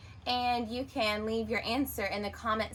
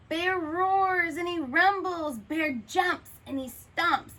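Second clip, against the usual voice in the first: louder, higher roaring read; roaring bear; 7 semitones higher, 5 dB louder than usual. A narrator's reading. Teacher reading to kids, loud stomping bear. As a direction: boom it out like an angry bear.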